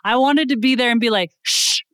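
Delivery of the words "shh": mock hushing. Hushing the excited group.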